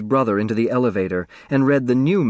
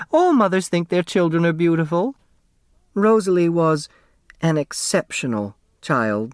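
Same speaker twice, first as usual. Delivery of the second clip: put-on raised, fond older woman's voice; elderly neighbor voice; 7 semitones higher than usual. A narrator's reading. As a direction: voice the chatty old neighbor, higher. Flora about her daughter.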